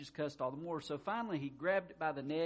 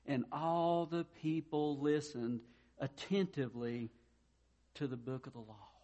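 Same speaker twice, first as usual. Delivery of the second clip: scripture reading. Acted. Reads verse aloud in sermon.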